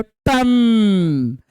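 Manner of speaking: a single ringing टन like a temple bell; bell sound imitation. Shown as a demonstration. Teacher imitating the temple bell for the class, ringing. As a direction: ring out टन like striking a bell. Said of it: "घंटी बजाइए".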